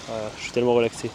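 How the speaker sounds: relaxed slow-motion talk. Real, not acted. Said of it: "Je parle en ralenti".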